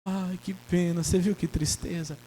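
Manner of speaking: mock pity. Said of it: "depois vai chorar".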